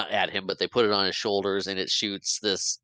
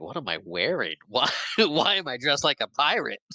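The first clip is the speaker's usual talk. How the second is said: baffled; 5 semitones higher than usual. Retold or imitated. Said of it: "looking at his Hook costume like".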